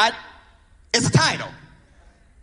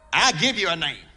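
dropped low and soft, a quiet promise; God's hushed answer; 6 semitones lower, 5 dB quieter than usual. Pretend. Preacher voicing God, low and soft. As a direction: lower and softer, savour the words.

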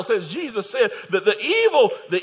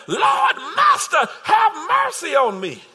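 crying out; 4 semitones higher than usual. Acted. Blind man crying out to Jesus.

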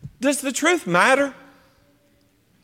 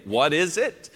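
dumbfounded Pilate; 5 semitones lower, 5 dB quieter than usual. Retold or imitated. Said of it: "dumbfounded ... like Pilate did".

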